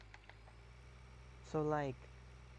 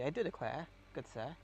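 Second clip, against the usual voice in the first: mock Southern gentleman. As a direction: put on a lightly played courtly Southern accent. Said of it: "it's also not the".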